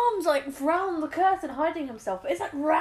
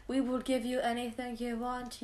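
Dalek; 6 dB quieter, slower than usual. Retold or imitated. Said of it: "or they promised him, like".

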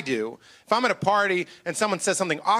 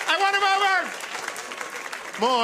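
slow, high sing-song "I won him over"; drawn-out triumph; 13 semitones higher, much slower than usual. Acted. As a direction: stretch every word to savour the win. Repeated, stretched boast.

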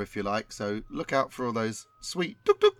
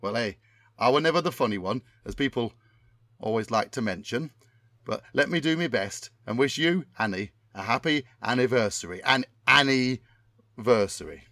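Tommy Cannon impression. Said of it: "my memory of what Tommy Cannon sounds like".

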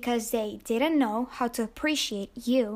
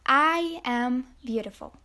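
self-affirmation; 4 dB louder than usual. Shown as a demonstration. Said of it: "look in the mirror and say".

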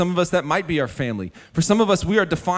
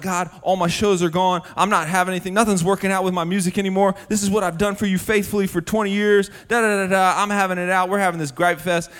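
mad at God; 4 semitones higher than usual. Retold or imitated. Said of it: "I'm mad at God".

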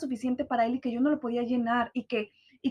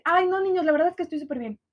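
bright falsely cheerful, a touch higher; fake cheerful; 3 semitones higher than usual. Shown as a demonstration. Demo for viewers: strained fake cheer. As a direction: show how forced cheer betrays stress. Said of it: "con mi tono de voz les puedo decir".

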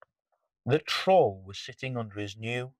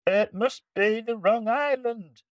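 high, complaining pirate voice; grumbling pirates; 12 semitones higher than usual. Acted. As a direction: moan like disappointed pirates.

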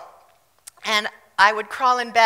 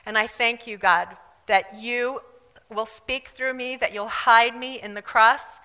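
earnest spoken prayer, softening at the close. Real, not acted. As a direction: pray to the Lord in measured phrases. Opening prayer to God.

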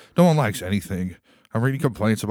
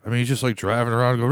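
ordinary delivery

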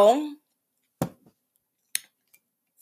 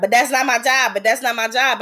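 mildly raised voice, retelling a protest; imitated raised voice; 2 semitones higher, faster than usual. Security guard refusing a passenger's request, voice mildly raised. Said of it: "he started raising his voice".

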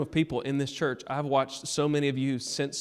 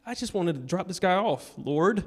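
retold broken moan; 3 semitones higher than usual. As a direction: sigh it out to the Lord, imitating defeat. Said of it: "I'm so broken".

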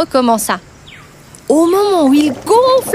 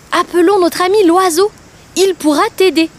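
slightly higher, brightened storyteller giraffe; helpful giraffe; 4 semitones higher than usual. Acted. Giraffe reassuring the crocodile, upbeat. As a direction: offer the idea cheerfully.

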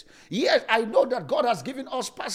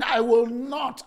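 drawn-out shouted "I will not"; slow defiant shout; much slower than usual. Retold or imitated. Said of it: "the guy is saying".

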